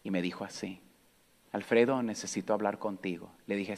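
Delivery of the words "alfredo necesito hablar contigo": soft grandma voice. Retold or imitated.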